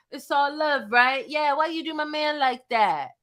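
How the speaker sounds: imitating him. Imitating the meek clout chaser.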